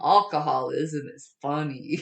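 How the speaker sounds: mock-approving, deadpan joke; tongue-in-cheek declaration; sarcastic. Real, not acted. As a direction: say it as obvious sarcasm. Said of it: "I say that sarcastically".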